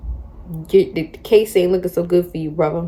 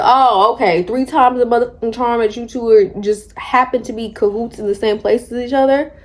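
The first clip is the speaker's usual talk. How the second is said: exasperated sarcasm; 4 semitones higher than usual. Retold or imitated. Wife exasperated at husband's cheating.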